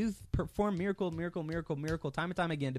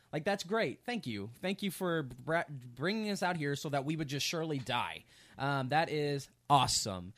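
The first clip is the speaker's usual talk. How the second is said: sarcastic people. Retold or imitated. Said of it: "He doesn't reply sarcastically".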